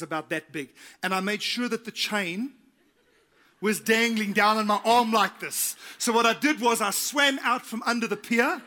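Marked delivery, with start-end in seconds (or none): 3.6-8.6 triumphant build. Real, not acted. Triumphant climax of story.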